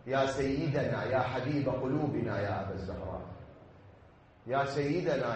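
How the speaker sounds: a lament of repeated calls, sung low; 1 mournful invocation. Real, not acted.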